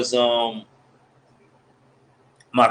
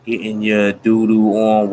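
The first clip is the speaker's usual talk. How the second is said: ordinary talk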